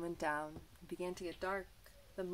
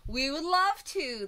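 purring cats; 8 semitones higher, 9 dB louder than usual. Acted. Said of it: "they purred".

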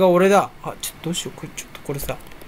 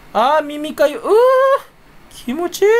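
high groaning moan of relief while scratching an ear; groaning with pleasure; 7 semitones higher, 4 dB louder than usual. Real, not acted. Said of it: "気違いじゃん、耳かきをそんな声でやってるやつ". (耳かきで気持ちよさそうにうなる声)

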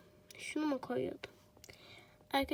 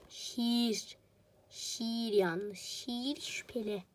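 made-up poem; 2 semitones lower, much slower than usual. Pretend. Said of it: "öyle bir şiir uydurasım geldi".

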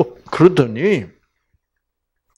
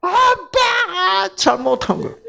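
put-on high, slow whining child's blame; whiny child. Daughter blaming her father while hitting him. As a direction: whine it like a pouting little girl. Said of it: "지가 그냥 아빠가 잘못한 거야".

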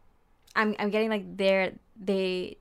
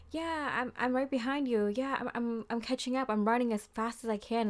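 mock panting, higher pitched; out of breath; 4 semitones higher than usual. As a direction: lightly play someone winded from running. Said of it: "They're, like, panting".

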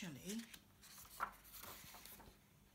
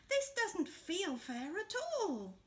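higher, slow plaintive complaint; slow, pitched-up grumble; slow whiny Hare; 8 semitones higher, slower than usual. Acted. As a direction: draw it out, a bit sulky.

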